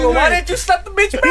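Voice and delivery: loud, high-pitched mock outburst; incredulous retort. Retelling an incredulous reply to a friend.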